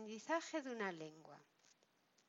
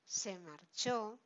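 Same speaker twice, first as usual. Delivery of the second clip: slow example; much slower than usual. Shown as a demonstration. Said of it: "Por ejemplo".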